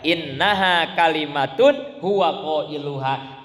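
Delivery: slow chanted Arabic verse; Quranic recitation. Acted. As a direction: recite it slowly and solemnly.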